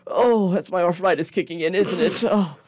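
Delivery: high, fussy little kobold complaining about his back; creature. Acted. Kobold shopkeeper to the adventurer rubbing his back, high fussy whine. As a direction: lightly whine like an old creature with a sore back.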